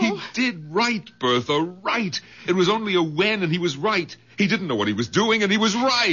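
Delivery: high emphatic insistence; insistent. Acted. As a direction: drive the point home. Insisting to wife.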